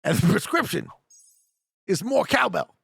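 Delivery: halting impression, pause mid-sentence; stop-start Walken delivery; Christopher Walken. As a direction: hold back the punchline, Walken-style. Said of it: "Christopher Walken's".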